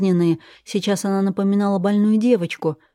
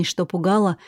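ordinary delivery, nothing marked

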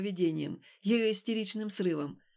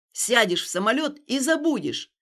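angry shout; 6 dB louder than usual. Acted. Stas shouting at Alina.

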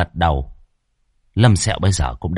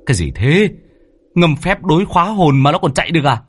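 shocked; 9 semitones higher than usual. A narrator's reading. Shocked master shouts at spirit.

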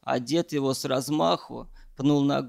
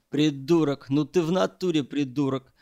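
ordinary delivery

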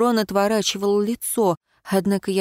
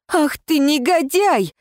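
higher, slow furious cry; yelling; 7 semitones higher than usual. Acted. Heroine screams at Ron while hitting him, slow furious cry. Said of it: "заорала я".

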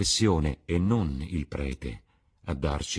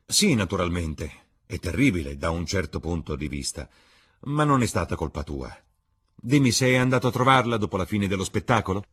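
Lord Henry, worldly; 6 dB louder than usual. Acted. Lord Henry questions Dorian.

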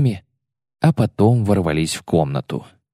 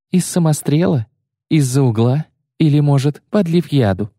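high, rising, scornful jabs; mocking taunt; 7 semitones higher than usual. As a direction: needle him with each question. Yennefer mocks his cowardice. (язвительная насмешка)

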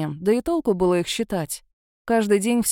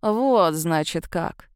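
cold, menacing, dropping to near silence; icy voice; 3 semitones lower, much slower than usual. Acted. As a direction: chill every word. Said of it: "ледяным голосом произнёс главарь".

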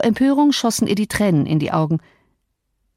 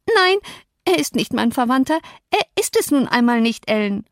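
put-on stubborn girl; 6 semitones higher than usual. Girl stubbornly denying kinship.

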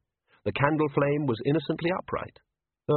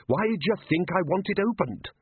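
Ridcully; 8 semitones higher than usual. A narrator's reading. Ridcully voiced in story.

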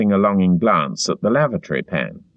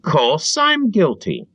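higher, slow eager admission; servile cry; 10 semitones higher, slower than usual. A narrator's reading. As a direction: blurt it out fawningly. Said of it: "cried Parsons with a servile glance".

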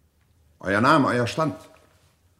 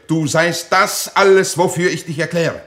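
booming accusation; 4 semitones higher, 5 dB louder than usual. Acted. Accusing challenge before combat.

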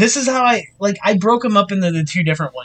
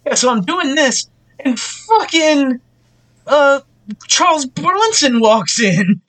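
hack comedian; 4 semitones higher than usual. Retold or imitated. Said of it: "how they started their fucking jokes".

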